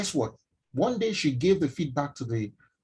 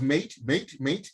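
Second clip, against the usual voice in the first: imitating Irish mate; much slower than usual. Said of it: "all I could hear was".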